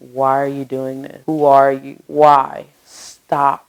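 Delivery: loud panicked cries of why and stop; panicked yelling. Retold or imitated. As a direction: yell it like a terrified victim. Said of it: "He started yelling".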